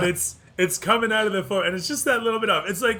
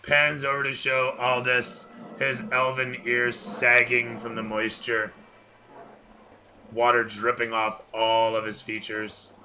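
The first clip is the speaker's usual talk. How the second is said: scene narration; 5 semitones lower, 3 dB quieter than usual. A narrator's reading.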